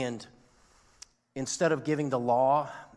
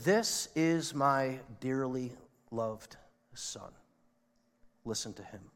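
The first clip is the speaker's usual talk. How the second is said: slow, solemn voice of God from the cloud. Acted. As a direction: speak as God, grave and measured. Preacher voicing God from cloud.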